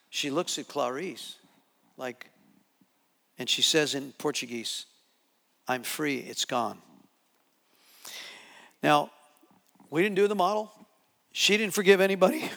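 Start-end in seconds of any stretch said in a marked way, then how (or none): 5.7-6.8 low, soft retold words; hushed, lowered release; quiet relief. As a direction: voice her relief gently and low. Voicing the delivered woman's relief.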